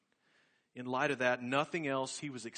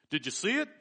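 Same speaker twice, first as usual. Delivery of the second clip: grinning excitement; 6 semitones higher, 4 dB louder, faster than usual. Retold or imitated.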